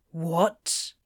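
low, short sleepy question; groggy bafflement. A narrator's reading. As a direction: ask it low, barely awake.

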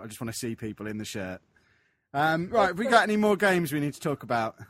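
a touch of London in the voice; London accent. Real, not acted. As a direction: speak with a hint of London. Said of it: "you sound a bit, um, Londony".

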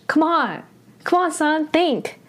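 high-pitched, frustrated scolding; exasperated anger. Real, not acted. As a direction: scold a drama character who disappoints you. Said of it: "I was very angry when I saw this".

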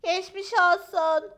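high, loud, slow sympathy; Fülfül the dog. A narrator's reading. Fülfül wishes injured Maya well, high loud voice. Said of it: "dedi Fülfül".

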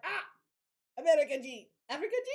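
high, loud eager greeting; mock excited foreigner voice; excited locals. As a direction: mimic an overeager tourist welcome. Mimicking excited Japanese locals.

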